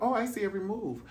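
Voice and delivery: high, playful impersonation of a blind singer; a sassy mock back-and-forth; mocking a singer. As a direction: mime a cheery exchange. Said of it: "He would have".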